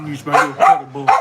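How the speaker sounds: breathy whispered pet talk; whispered endearment. Real, not acted.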